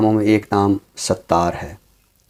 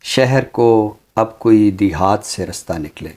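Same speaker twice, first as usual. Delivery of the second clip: ghazal recitation. Acted. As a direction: savor each line like a mushaira reading. (धीमी, ठहरी हुई ग़ज़ल-ख़्वानी)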